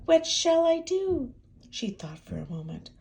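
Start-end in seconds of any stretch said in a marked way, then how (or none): 0.0-1.3 panicked hen. Acted.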